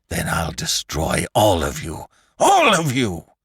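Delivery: Lantry screaming his threat at McClure; screamed. A narrator's reading. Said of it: "screamed Lantry".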